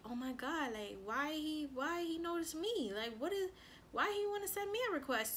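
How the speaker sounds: acted-out flustered wondering; retold nervous disbelief. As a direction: replay being nervously baffled, pitch climbing. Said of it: "I got nervous".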